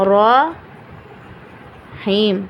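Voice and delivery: رحیم drawn out very slowly, chanted; drawn-out recitation. Shown as a demonstration. Teacher chants رحیم slowly for students, stopping on the final م. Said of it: "کیا ہم زیر کی آواز نکال رہے ہیں".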